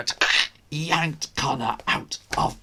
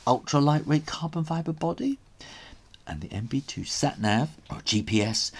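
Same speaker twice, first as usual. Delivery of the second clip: info aside; faster than usual. A narrator's reading. Gadget info read aside.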